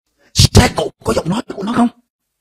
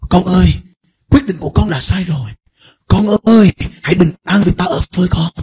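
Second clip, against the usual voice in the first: tender God voice; 3 semitones lower than usual. Acted. Preacher voicing God comforting his child, slow and tender.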